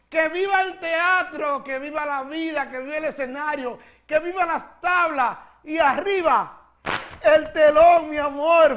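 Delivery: rally everyone with a festive toast; cheering toast. Real, not acted. Host cheering her fellow actors, rising to a loud ending.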